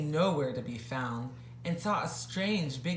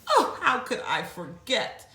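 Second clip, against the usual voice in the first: elephant; 7 semitones higher, 4 dB louder than usual. Acted.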